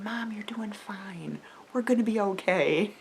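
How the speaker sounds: soft, hushed reassurance; level-headed. Retold or imitated. Sons alongside a worried mom, soft reassurance. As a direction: drop to a gentle near-whisper to comfort. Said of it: "Very level-headed".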